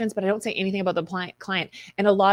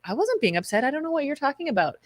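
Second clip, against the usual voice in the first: rising to much higher, quick denial; feigned innocence; 6 semitones higher, faster than usual. Retold or imitated. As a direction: play dumb with a bright, fast brush-off. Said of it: "That's when you know you're being a passive aggressive".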